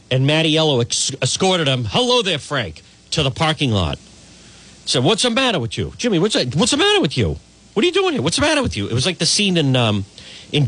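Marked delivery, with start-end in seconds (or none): 1.9-2.8 high, sing-song hello; mock friendly greeting. Mocking the boss greeting his goon. 5.0-8.9 mobster impression. Boss scolding the uninvited goon. Retold Goodfellas-style confrontation.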